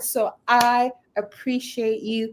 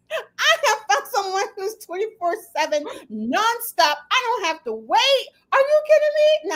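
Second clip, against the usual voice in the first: laughing, hammed-up; 8 semitones higher than usual. Continuing the laughing mock firing.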